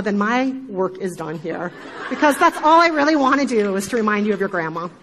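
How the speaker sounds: amused, laughing at her own joke; laughing while talking. Real, not acted.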